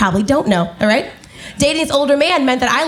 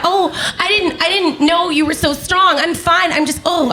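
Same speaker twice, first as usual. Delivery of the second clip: lightly acted victim, pitched up; mock hurt reaction; 5 semitones higher than usual. Girlfriend reacting to staged contact, higher mock-wounded voice. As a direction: play up being hurt while insisting otherwise.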